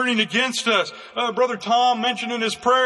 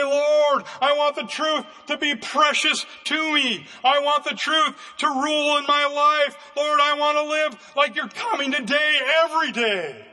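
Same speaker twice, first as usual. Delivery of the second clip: model prayer; 4 semitones higher than usual. Shown as a demonstration.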